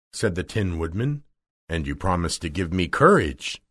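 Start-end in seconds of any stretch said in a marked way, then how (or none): 1.7-3.6 low-pitched storybook lion; lightly voiced low lion; Cowardly Lion. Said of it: "said the Cowardly Lion".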